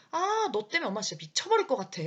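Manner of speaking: 아들에게 화내며 소리치는 엄마 흉내; mock frustrated yell. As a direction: play a fed-up mom venting. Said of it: "막 이렇게 소리를 지르셔도".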